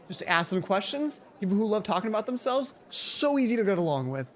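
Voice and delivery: chirpy Mai. Acted. Mai's chirpy advice.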